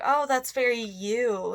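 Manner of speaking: slow, condescending imitation of a sister; mock backhanded compliment, drawn out. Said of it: "in, like, that kind of condescending way".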